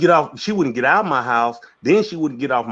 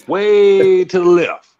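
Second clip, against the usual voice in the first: laughing; 5 semitones higher, 6 dB louder, slower than usual. Real, not acted. Describing her blowing up.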